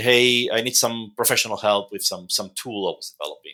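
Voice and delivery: ordinary talk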